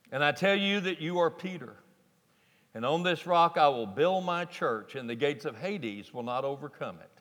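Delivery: reading scripture aloud to the congregation; measured, reverent reading. Acted. Pastor reads the Bible passage to the church, reverently.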